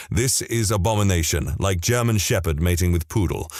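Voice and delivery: lightly imitated thick Korean accent; a hint of a Korean accent, said plainly. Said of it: "he said in his thick Korean accent".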